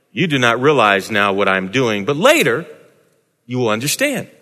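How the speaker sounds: Jesus calmly telling Peter he will understand; Jesus' voice. Acted. Preacher voices Jesus replying.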